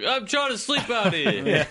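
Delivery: high, slow homeless New Yorker; New York accent. Pretend. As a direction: grumble it like a New York street sleeper. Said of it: "That's your New York accent?".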